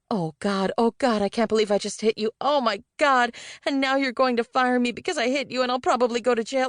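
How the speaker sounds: panicked. A narrator's reading.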